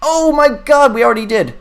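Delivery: high, loud astonished exclamation; real surprise. Real, not acted. Streamer sees viewers already unsubscribed, loud high-pitched surprise. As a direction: cry out in amused disbelief, pitch leaping up.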